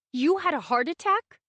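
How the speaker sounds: high, loud disbelief; a high, loud shocked question. A narrator's reading. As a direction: it bursts out of her in alarm. Shocked daughter.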